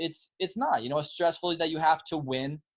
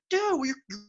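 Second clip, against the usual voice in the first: put-on high-pitched, amazed young dude; thrilled, disbelieving mock reaction; excited younger self; 14 semitones higher than usual. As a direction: gush in awe as your younger self. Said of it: "twenty-year-old us were looking at ourselves".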